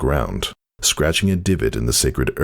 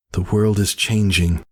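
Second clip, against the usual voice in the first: shooting back; 8 semitones higher than usual. A narrator's reading. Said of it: "Whisper shot back".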